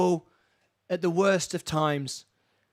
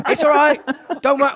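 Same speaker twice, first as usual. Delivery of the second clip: laughing reassurance; 7 semitones higher, 8 dB louder than usual. Real, not acted.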